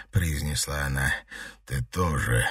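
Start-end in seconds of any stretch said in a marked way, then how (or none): 1.7-2.5 low, rasped reply; lightly voiced hoarse answer. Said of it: "хрипло ответил он".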